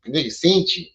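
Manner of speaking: light impression, drawing out "seen"; young Pharaoh. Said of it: "In my young Pharaoh voice".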